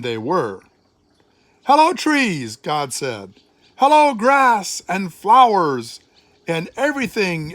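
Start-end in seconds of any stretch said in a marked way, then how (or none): 1.6-2.6 joyful greeting. A narrator's reading. God greets creation joyfully. 3.8-6.0 louder, higher happy call; joyful greeting. A narrator's reading. God greets creation joyfully.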